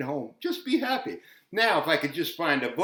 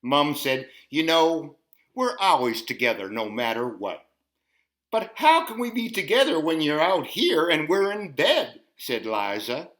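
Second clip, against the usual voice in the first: lively storytime read; picture-book storytime voice; reading to children. Acted. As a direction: read the book to little ones. Reads picture book to kids.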